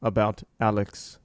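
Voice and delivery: low, slow, hushed interviewer voice; James Lipton. Pretend. Playing a grave talk-show host interviewing Rick, low and slow. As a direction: lean in like a solemn TV interviewer. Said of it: "be like James Lipton".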